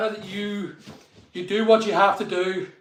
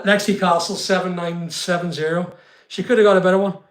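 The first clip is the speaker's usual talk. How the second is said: normal talking voice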